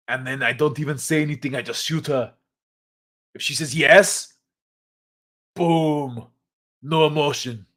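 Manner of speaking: Arnold quote in a mock Australian accent. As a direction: Terminator advice read in an Aussie voice. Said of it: "I don't know why I made him Australian".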